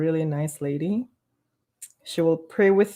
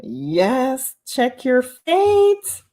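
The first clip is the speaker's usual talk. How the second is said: high squealed "Hey" then slow slogan; squeal, then drag out the motto; imitating Coco; 13 semitones higher, 4 dB louder, much slower than usual. Mimicking Coco's catchphrase for the stream, high and slow. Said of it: "She goes".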